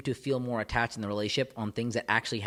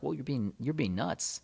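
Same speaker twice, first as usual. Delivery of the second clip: calm dismissal; 2 semitones higher, 4 dB quieter than usual. Retold or imitated. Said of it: "very calm about it and they're lulling back".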